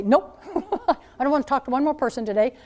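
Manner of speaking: fast exasperated grumble, laughing; grumbling. Pretend. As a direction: let the irritation spill out fast. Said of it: "I wanna say under my breath".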